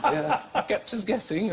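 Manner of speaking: a light mock-royal lilt; imitating the Queen. The Queen congratulating him, lightly voiced royal.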